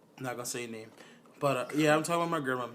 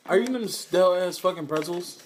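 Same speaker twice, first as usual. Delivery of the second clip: incredulous; 6 semitones higher, 7 dB louder than usual. Real, not acted. Calls out friend's noisy snacking.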